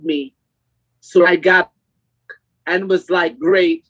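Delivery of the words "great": sarcastic. Retold or imitated. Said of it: "That was sarcastic".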